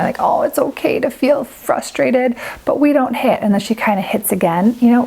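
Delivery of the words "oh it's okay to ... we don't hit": put-on soothing, babying tone. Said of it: "he kind of felt like I was babying her".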